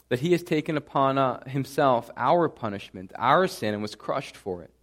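steady, reverent prayer voice. Acted. Pastor leading the congregation in closing prayer, reverent and steady. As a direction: pray it sincerely to God.

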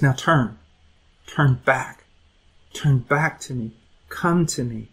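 softly pleading, with pauses between calls; gentle call back. Acted. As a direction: quietly coax someone to come back. God calls the sinner back.

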